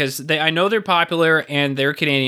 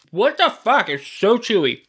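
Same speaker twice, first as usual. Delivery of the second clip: shocked disbelief; 4 semitones higher than usual. Real, not acted. Reacting to chewy taffy.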